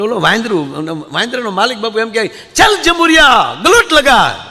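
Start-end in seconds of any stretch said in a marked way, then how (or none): 2.5-4.5 high, loud showman's call, slowed on ચાલ; street monkey trainer. Retold or imitated. Trainer orders his monkey to somersault, loud high call. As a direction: bark the command like a street performer at a crowd.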